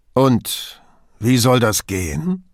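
slow, mocking sarcasm of the stronger man; sarcastic. Borgato mocks the weak official, slow sarcasm. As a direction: needle him with sarcasm. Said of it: "mit dem Sarkasmus der Starken".

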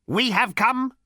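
high, rasping ancient machine; rasped robot. A narrator's reading. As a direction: rasp it out cold and slow. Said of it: "rasped the robot".

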